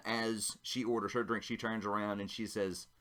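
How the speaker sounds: ordinary delivery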